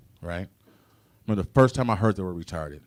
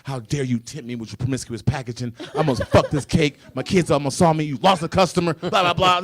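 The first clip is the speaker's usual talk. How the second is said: angry letter; 2 semitones higher, 4 dB louder than usual. Acted. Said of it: "wrote Duncan Hines an angry email".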